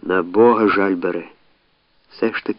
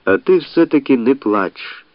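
reasonable; 5 semitones higher than usual. Acted. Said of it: "промовив на це резонно".

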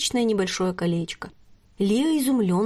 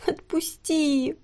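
very slow, higher plaintive moan; 7 semitones higher, much slower than usual. Acted. Lia begging Nort to let her go, plaintive slow moan. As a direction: drag it out pitifully. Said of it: "жалобно простонала она".

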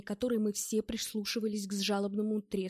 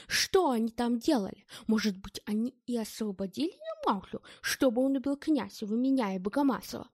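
mildly raised indignant tirade; outburst; 2 semitones higher, 4 dB louder than usual. Acted. Ed explodes at his accusers, indignant rant. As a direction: rant at them, offended. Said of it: "Эд взорвался".

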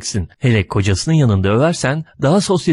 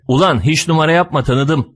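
mild shout; 6 semitones higher than usual. A narrator's reading. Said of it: "diye bağırdım".

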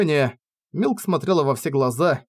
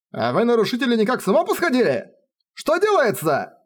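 outraged elf; 8 semitones higher than usual. Acted. Outraged elf confronts trespassers.

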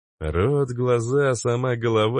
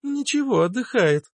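much higher, light and carefree; high girlish voice. A narrator's reading. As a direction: shrug it off like a young girl. (Плакса, высоким девичьим голосом)

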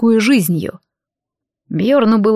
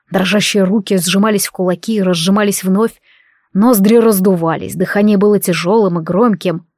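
usual speaking voice

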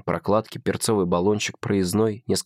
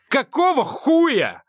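much higher, slow, bellowed; furious shout; 5 dB louder, much slower than usual. A narrator's reading. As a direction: roar it as he jumps up. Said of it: "кричит Адам".

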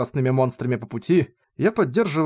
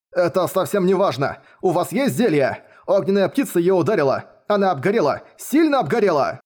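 high, pleading and rising; desperate; 5 semitones higher than usual. A narrator's reading. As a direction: beg with feigned panic. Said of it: "ответить со всем отчаянием". (отчаянная мольба)

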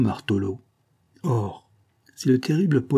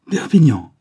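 louder, higher cry of recognition; exclaiming; 5 semitones higher, 8 dB louder than usual. A narrator's reading. The count suddenly recognises the showman and cries out. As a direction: cry out his name in surprise. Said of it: "s'écria-t-il enfin".

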